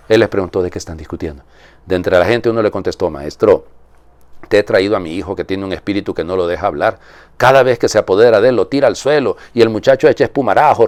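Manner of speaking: measured liturgical reading voice; solemn Gospel reading. Acted. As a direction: proclaim the Gospel to the congregation. Priest reads the Gospel aloud.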